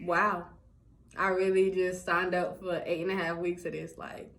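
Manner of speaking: low, soft, deflated muttering; stunned inner thought. Retold or imitated. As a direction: say it quietly to yourself, sinking in. Her stunned inner thought, sitting there.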